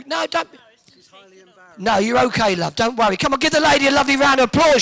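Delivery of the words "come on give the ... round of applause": calling for applause. Real, not acted. Host rallies audience applause.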